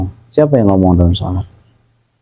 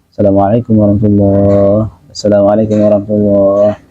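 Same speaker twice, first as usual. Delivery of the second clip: brusque salam. Retold or imitated. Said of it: "Nggak mungkin kan baru aja selesai salam".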